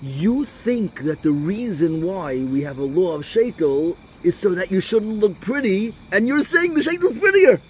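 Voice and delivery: slow and loud, climbing to a very high pitch; mock dawning realization. Rabbi playing dumb finally gets the questioner's point, mock incredulous.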